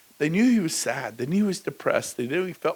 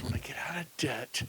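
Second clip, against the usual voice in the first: whispered dream; 8 dB quieter than usual. Pretend. Mocking the success dream.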